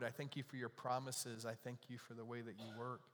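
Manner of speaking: earnest public prayer, evenly paced. Real, not acted. Pastor praying over the lonely in the congregation, earnest and subdued. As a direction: lead a heartfelt prayer in a restrained tone.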